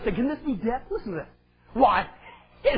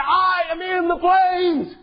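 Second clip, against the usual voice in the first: imitating a cry of torment; 4 semitones higher, much slower than usual. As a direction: act out a dying man crying in agony.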